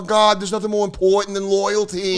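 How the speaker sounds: high mock-ecstatic Italian-American voice; aroused Italian American. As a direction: gush in hammed-up Italian-American rapture. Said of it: "like, Italians".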